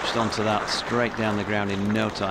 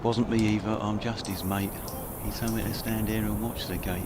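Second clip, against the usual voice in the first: put-on mild Cockney accent. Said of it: "you could do a Cockney accent as well".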